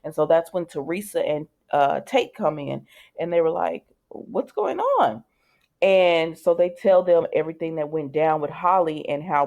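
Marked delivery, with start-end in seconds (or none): 4.1-5.2 high, slow, drawn-out question; a puzzled teen asking what's happening. Retold or imitated. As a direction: stretch it out, baffled and much higher. Tate and Teresa walk in puzzled.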